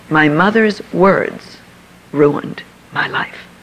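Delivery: slow, breaking into a whispered sob; in tears. Retold or imitated. Mother-in-law blames her mother's words, slow, whispering through tears. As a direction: drag each word out through tears. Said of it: "in tears".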